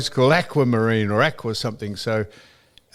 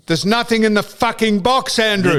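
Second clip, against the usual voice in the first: raised, loud indignant line with box lifted high; angry retold swear; 8 semitones higher, 4 dB louder than usual. Telling the pool shop man his box is empty, raised and angry. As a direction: let him have it over the phone. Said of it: "You didn't swear".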